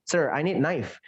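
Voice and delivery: "knife" as "naif", silent K; correct knife. Shown as a demonstration. Student's request to Sir corrected, knife as "naif". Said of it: "pasti knife gitu".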